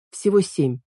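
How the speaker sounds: plain reading voice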